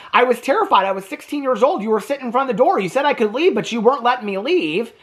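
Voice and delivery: retold scared teen. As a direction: plead like a frightened sixteen-year-old. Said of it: "the Maurice guy says".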